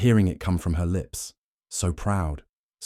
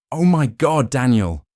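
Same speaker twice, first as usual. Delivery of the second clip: high, loud startled cry of his name; gasping; 6 semitones higher, 7 dB louder than usual. A narrator's reading. Drunk wife sees husband return, high loud gasp. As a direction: burst out in shocked relief. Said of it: "she gasped".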